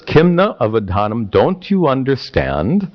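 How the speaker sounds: lightly voiced exasperated teenager; a hint of teenage challenge, lifting on the question; typical teenager. Teenage prince challenging his father, lightly voiced teenager. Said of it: "does that sound like typical teenager".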